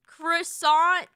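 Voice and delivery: croissant in an irritating anglicized way; annoying croissant. Shown as a demonstration. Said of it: "but annoying".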